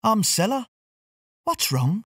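a caring stranger asking gently; her voice. Acted. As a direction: the speaker introducing herself to a crying singer. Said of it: "said a voice".

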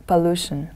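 Pollution with the stress on its second syllable, LU; teacher's model of Pollution, stressed po-LU-tion. Shown as a demonstration. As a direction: say Pollution as a model word, leaning on the middle syllable. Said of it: "the stress is on the second syllable".

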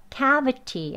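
cavity with a fully released, aspirated T; careful cavity with a true t sound; hard T. Shown as a demonstration. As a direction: say cavity as spelt, rough T. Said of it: "좀 소리가 거친 소리지요".

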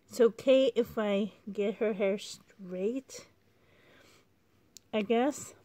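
short of breath, trailing off; talking while winded. Real, not acted. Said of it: "I'm running out of breath".

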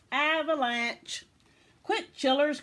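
high, loud warning shout; urgent cry. A narrator's reading. Grandude warns children of the avalanche, crying out. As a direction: raise the alarm and hurry everyone. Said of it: "cried Grandude".

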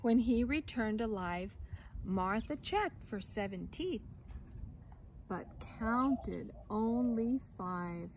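lively storybook reading voice; reading to children. A narrator's reading. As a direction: read the tale aloud to a class. Reads picture book aloud.

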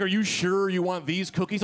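imitating a concerned warning; retold as a careful, well-meant check. Party girl warning a man about pot cookies, warning. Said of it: "was trying to warn me".

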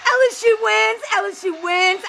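celebrating win. Real, not acted.

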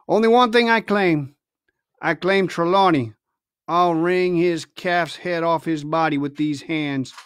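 menacing pirate. Acted. Silver threatening.

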